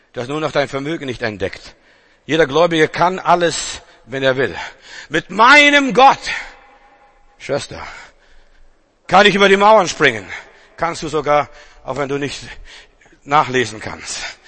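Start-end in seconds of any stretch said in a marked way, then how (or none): 5.1-10.3 proclaiming. Acted. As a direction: declare it triumphantly. Preacher proclaims verse.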